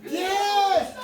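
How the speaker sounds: high, loud exclamation; emphatic yes. Real, not acted. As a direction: burst out with an insistent yes. Emphatic answer to incredulous question.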